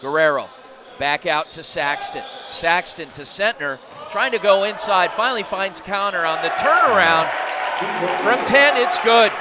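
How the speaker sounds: energetic live basketball call; play-by-play. Acted. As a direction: call the action as it happens.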